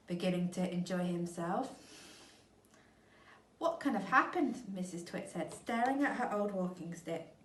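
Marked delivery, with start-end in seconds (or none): 3.6-4.6 higher, louder bewildered question; puzzled old woman. Acted. Missus Twit staring at her walking stick. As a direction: wonder aloud, baffled.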